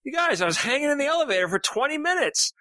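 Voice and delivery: 1 indignant crewman. Retold or imitated. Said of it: "and he goes".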